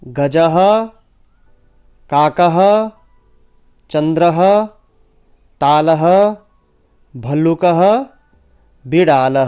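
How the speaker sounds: "गजः, काकः, चंद्रः" each rising like a list, "बिडालः" falling to close; measured roll-call, "भल्लुकः" rising, "बिडालः" dropping last; pronunciation drill. Shown as a demonstration. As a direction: recite "तालः, भल्लुकः" one at a time with lifted endings. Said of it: "एक बार पुनः उच्चारण करेंगे".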